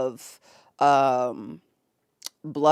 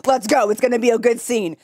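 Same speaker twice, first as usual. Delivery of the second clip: excited fan reaction; 7 semitones higher, 7 dB louder than usual. Retold or imitated. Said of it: "I was like".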